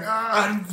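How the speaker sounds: high drawn-out "ah" of discomfort; mock pained groan. Patient reenacting the needle poking her nose, mock groan. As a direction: imitate wincing under the needle.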